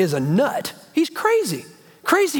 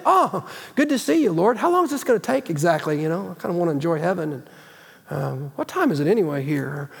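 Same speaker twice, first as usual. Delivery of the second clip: lightly hammed-up indifference, dropping into a mutter; a half-hearted churchgoer shrugging off heaven; bored believer; 3 semitones lower than usual. Mocking a bored believer meeting Jesus.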